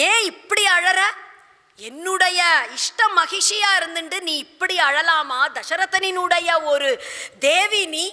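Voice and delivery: acted husband begging his crying wife; pleading, coaxing. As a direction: plead with her to tell you. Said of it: "கெஞ்சி பார்க்கிறார், கொஞ்சி பார்க்கிறார்".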